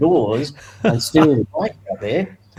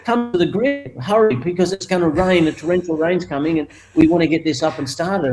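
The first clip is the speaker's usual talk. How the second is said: raised, higher announcer call; mock PA announcer; 4 semitones higher than usual. Track announcer calling riders to the grid, in a mock PA voice. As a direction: boom it out like the paddock PA.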